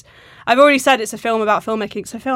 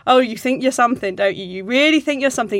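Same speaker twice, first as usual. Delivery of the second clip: sarcastic. Retold or imitated. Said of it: "it sounded so sarcastic".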